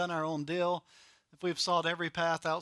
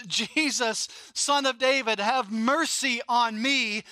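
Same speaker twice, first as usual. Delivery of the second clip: mild mock cry out; 5 semitones higher, 4 dB louder than usual. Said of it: "cried out at the top of his lungs".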